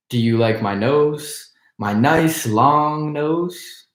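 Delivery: hoarse creaking voice. Acted. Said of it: "in a hoarse, creaking voice".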